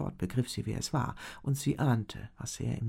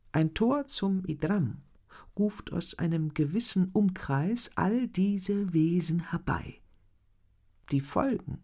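explaining duke; 6 semitones higher, 4 dB louder than usual. A narrator's reading. Duke warns his pupils, solemn and grave. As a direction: weigh each word like a solemn lesson. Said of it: "hatte der Herzog von Conté erklärt".

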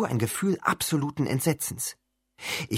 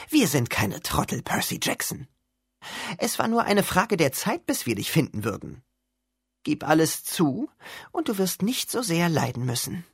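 threatening teacher; 5 semitones higher than usual. Acted. Monster teacher threatens Percy.

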